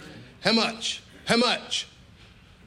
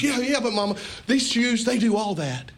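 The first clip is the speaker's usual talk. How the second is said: put-on pleading child; 4 semitones higher than usual. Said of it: "pretend like we're going to mama".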